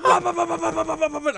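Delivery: a big loud laugh breaking up the words; can barely get it out for laughing; laughing hard. Real, not acted. Telling friends the story, cracking up loud.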